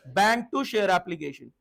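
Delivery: very slow, word by word entry; slow dictation. Shown as a demonstration. Teacher dictating an entry for students to repeat, very slow. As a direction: spell out the journal entry slowly for the class. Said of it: "बोलो entry".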